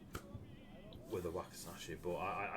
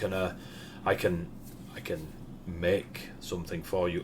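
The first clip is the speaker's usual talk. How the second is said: eager smith. Acted. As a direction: pitch it up, a keen smith pushing his blades. GM voices the smith.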